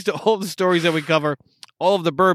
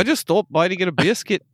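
badly faked British lilt; bad British accent; 2 semitones higher than usual. Co-host playing an Isla islander, bad British accent. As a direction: try a British accent and miss. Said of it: "That's bad".

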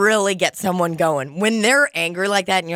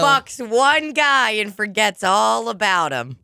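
slow mocking tease, pitched up; teasing; 3 semitones higher, slower than usual. Real, not acted. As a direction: poke fun slowly. Teasing friend.

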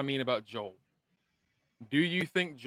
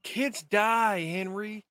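higher, slowing into drawn-out words; retold hard verdict; 5 semitones higher, much slower than usual. Co-host quoting Kathleen to Henry, weighty and drawn out. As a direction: quote it with deliberate weight, stretching the end.

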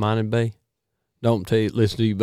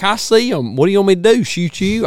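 retold exclamation; 9 semitones higher, 4 dB louder than usual. Retold own words to Marvin.

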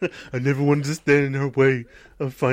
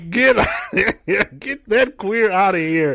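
laughing mock quote; 3 semitones higher than usual. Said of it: "he said".

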